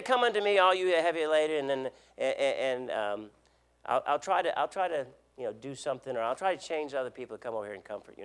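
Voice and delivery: fumbling, stalling with ums, then rushing the last line fast; a half-hearted promise that trails off; hesitant mock version. Preacher mocking an unsure Jesus for the congregation, hesitant. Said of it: "He doesn't say".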